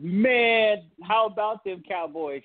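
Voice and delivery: imitating a friend's excited greeting, lifted on "Man". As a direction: retell a buddy bursting in with news. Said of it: "One of my friends comes up to me and said".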